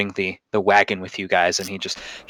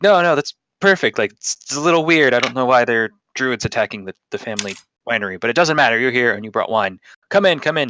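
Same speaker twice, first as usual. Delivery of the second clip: put-on Russian accent; 2 semitones higher, 4 dB louder than usual. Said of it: "all have Russian accent in this land".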